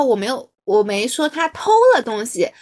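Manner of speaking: 偷 stressed in 我没说他偷了东西. Shown as a demonstration. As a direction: lean on the word 偷. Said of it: "或者说强调是偷".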